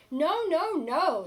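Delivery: wolves cry out high and loud; loud refusal. Acted. Little wolves shouting no at the pig, loud. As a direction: shout the refusal through the door.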